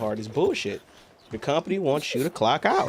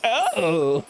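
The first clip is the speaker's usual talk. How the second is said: put-on swooning girl; 7 semitones higher, 3 dB louder than usual. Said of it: "Girls are like".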